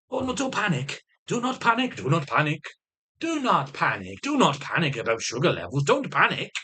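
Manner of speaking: hammed-up, repetitive mock advice; sing-song sarcasm, varied pitch; mocking reassurance. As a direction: parody someone telling you to stay calm. Sarcastically mocking advice not to panic.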